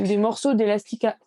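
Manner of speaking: talking through hiccups; words jolted by a hiccup. Real, not acted. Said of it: "j'ai le hoquet".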